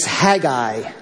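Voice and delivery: "Haggai" as HAG-eye, drawn out; first pronunciation. Shown as a demonstration. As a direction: say "Haggai" slowly with stress on HAG. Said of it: "you'll notice I said Haggai".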